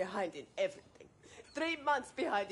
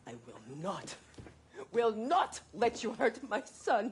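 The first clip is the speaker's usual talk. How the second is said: louder, slower, each word firm; firm defiant; 2 semitones higher, 4 dB louder than usual. Acted. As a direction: stand your ground against him. Mother defies husband.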